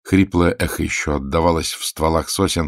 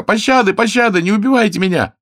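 very high, loud wail for mercy; hammed-up squeezed screech of surrender; strangled pleading yell; 7 dB louder than usual. A narrator's reading. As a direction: beg for your life at the top of your voice. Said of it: "сдавленно заорал Пашка".

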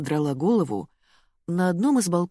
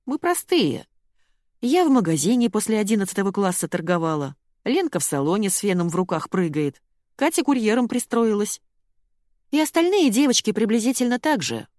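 voiced Marina; 5 semitones higher, 3 dB louder than usual. A narrator's reading.

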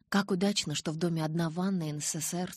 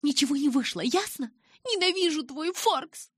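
shouting; 11 semitones higher, 4 dB louder than usual. A narrator's reading. Bella screams final words at Charlie.

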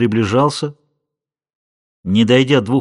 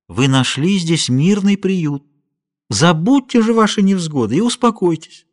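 slow gentle reassurance; 5 semitones higher than usual. A narrator's reading. Paulita comforting the weeping Julia, slow and gentle. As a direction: soothe her slowly and kindly. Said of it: "ласково гладя по руке".

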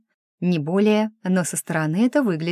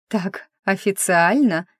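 smirking; 2 semitones higher, slower than usual. Acted. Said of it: "усмехнулась она".

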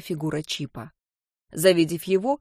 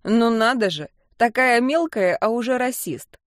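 deep rumbling voice; 3 semitones higher, 3 dB louder than usual. Acted. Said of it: "пробасил".

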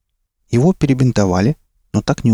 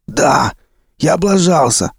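high, cracked outburst; shouted confession; 7 semitones higher, slower than usual. A narrator's reading. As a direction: shout it out in frustration. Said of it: "выкрикнул везун".

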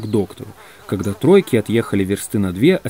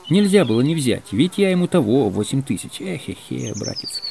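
rueful confiding; 2 semitones higher than usual. Acted. Егор Егорыч excusing himself to his brother, rueful. Confiding about debt to friend.

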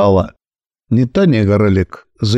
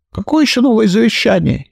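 fuming; 9 semitones higher, faster than usual. Acted. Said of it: "кипятился он".

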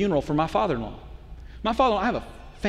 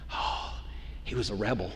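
softer and lower, lightly voiced fond wife; wistful wife; 8 semitones lower, 10 dB quieter than usual. Wife tells the pastor what first attracted her, soft and fond. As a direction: sigh it out as if remembering first love. Wife recalls why she fell for him.

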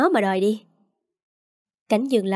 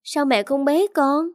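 put-on higher, slow whiny little boy; sulky child; 6 semitones higher than usual. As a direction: pout it out like a jealous small child. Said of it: "Tôn phụng phịu". (giọng trẻ con phụng phịu, chậm và cao)

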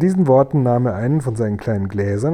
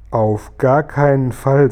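slow, drawn-out refusal; firm refusal; 5 dB louder, slower than usual. Acted. Sophiechen refusing the seat beside the Borstenbuckler, firm refusal. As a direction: refuse it flatly, stretching every word.

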